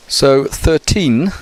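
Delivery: put-on thirteen said slowly, stress on the TEEN; slow thirteen with the weight on teen. Shown as a demonstration. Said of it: "we stress the teen".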